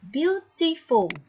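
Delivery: beautiful said slowly, syllable by syllable; slow syllable demo. Shown as a demonstration. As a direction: stretch out "Beautiful" so each of its three syllables is heard. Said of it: "how many syllables can you hear?".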